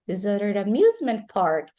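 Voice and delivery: "amusement park" stressed, "amusement" punched up; teacher's model, weight on "amusement park"; stress on final words. Shown as a demonstration. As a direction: hit "amusement park" as the end of the sentence. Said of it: "the final word in a sentence is stressed".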